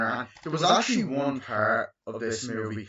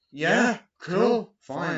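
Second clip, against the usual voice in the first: mock cool reply; 8 semitones higher, 6 dB louder, much slower than usual. Guy playing it cool.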